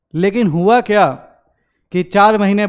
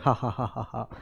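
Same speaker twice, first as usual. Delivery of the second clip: mock crowd laughter; 7 semitones lower, 13 dB quieter than usual. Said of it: "लोग हंस रहे हैं".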